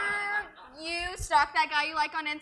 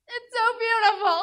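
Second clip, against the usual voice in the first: dramatic loud; 5 semitones higher, 8 dB louder than usual. Acted. Melodramatic movie scene.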